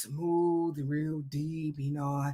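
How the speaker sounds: low, soft imitation of a radio host; imitating a suave, deep-voiced DJ; smooth deep radio voice. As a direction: drop way down, smooth and quiet. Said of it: "Like, that's how he talked".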